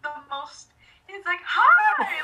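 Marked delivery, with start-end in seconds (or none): 1.4-2.2 very high, loud cracking greeting. Retold or imitated. Celebrity greeting a fan, imitated with voice crack. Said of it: "with the voice crack and everything".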